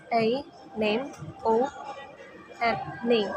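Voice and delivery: anemone split as A, name, O, name with pauses; syllable by syllable. Shown as a demonstration. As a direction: say A, name, O, name one beat each. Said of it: "Divide anemone in syllable is".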